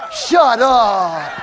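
loud, drawn-out incredulous outburst; astonished disbelief. Retold or imitated. Man hears the landscaping is paid for, astonished disbelief. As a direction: exclaim it loudly, imitating a stunned man. Disbelief at a thousand-dollar gift retold.

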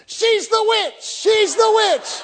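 hammed-up frightened yell; mock terror. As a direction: shriek it like in a horror film. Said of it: "I'm thinking".

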